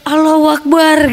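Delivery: mild mock yell of desperation; retold cry out. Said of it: "saya sampai berteriak". (teriakan tiruan yang tertahan)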